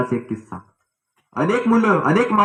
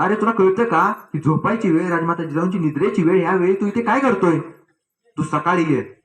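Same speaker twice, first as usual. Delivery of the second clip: thundering guard; 4 semitones higher than usual. Acted. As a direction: bark at the late-night visitor like a stern sentry. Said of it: "शिपाई कडाडला".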